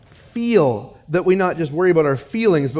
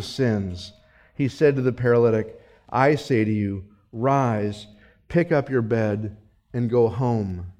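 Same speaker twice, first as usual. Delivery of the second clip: hushed Jesus command; 9 semitones lower, 6 dB quieter than usual. Acted. Jesus heals the paralytic.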